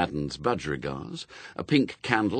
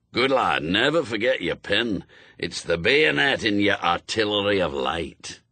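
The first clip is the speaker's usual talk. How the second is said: put-on brusque old witchfinder with a Scots burr; old Scots sergeant. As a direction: bark orders like a crusty sergeant. Shadwell praises Newt.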